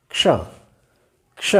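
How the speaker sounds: क्ष said alone, a light क then श; क्ष as a single syllable; isolated क्ष. Shown as a demonstration. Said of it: "किस तरह से उच्चारण करेंगे फिर देखें". (क्ष ध्वनि का अलग उच्चारण)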